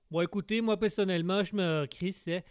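Québécois character voice; Québécois accent. Acted. Québécois guest settles his name with the host, Québécois accent. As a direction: speak in a broad Québécois accent. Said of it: "ça annonce votre accent".

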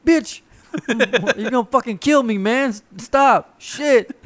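very high, loud mock panic; imitated frightened outrage. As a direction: play the rattled dad pleading and cursing. Retelling frightened dad begging him to stop.

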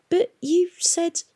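high, slow protest; object, wounded. A narrator's reading. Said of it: "Mags protested".

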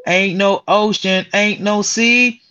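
slow, drawn-out Color Purple impression; mock movie quote. Teasing friend on podcast, slow hammed-up movie quote. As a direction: savor each word like the film.

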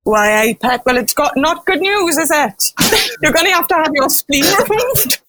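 put-on lilting Geordie accent, rising toward the end. Geordie tricorder tells patient the bad news, in a Geordie accent. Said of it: "the Geordie tricorder is going to".

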